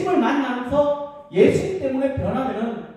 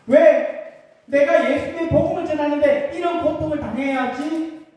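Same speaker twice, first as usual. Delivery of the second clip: mildly acted grumbling, pitched a little higher; mock complaint; 3 semitones higher than usual. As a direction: voice a resentful "why me?" protest, lightly. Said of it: "이렇게 불평하거나 원망하지 않았습니다".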